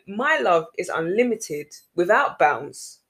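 slow, solemn and tender; slow solemn God voice. Retold or imitated. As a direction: speak it slowly like a gentle promise. Voicing God's promise.

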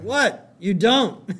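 high, loud imitated protest; mock defensive. Husband to his upset wife, defensive protest.

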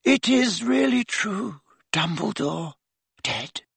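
high, slow and fading; portrait lady. A narrator's reading. Painted lady asking Harry, high and fading. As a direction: ask in dread, trailing off.

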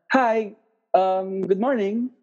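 lightly acted, friendly customer small talk; pretend customer. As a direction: play a customer greeting the barista in English. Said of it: "let's pretend that I'm".

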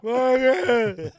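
loud, slow, high call of the name; hammed-up plea to the aunt; drawn-out call. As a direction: stretch the name out as you yell it. Calling out to the aunt.

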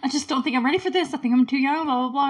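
hurried, half-serious imitation of panic; mock freaking out. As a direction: rattle it off like someone panicking. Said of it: "she's freaking out".

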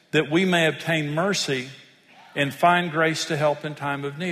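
steady, solemn reading of scripture. Acted. Pastor reads Hebrews to congregation, solemn scripture reading. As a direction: read it out like a pulpit reading.

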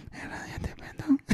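susurrado, sin voz, lento; cántalo en un susurro, como eco; susurro cantado. Shown as a demonstration. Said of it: "ese es el corito". (eco susurrado del final del coro)

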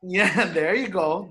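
slow words with a laugh in them. Real, not acted. Laughing, then repeating the phrase.

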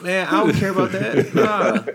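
high, laughing dismissive retort; laughing mock reply. Player echoing a shrug at fans, laughing. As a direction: toss it off through laughter. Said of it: "Like, what?".

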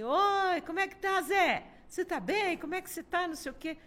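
butter up the caller in a high sugary voice; mock sweet phone greeting. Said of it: "Aí ele pegou e falou assim".

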